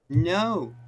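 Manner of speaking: high, loud scream of no. Acted. Boy screaming with hideous laughter, loud shriek. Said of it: "The boy screams".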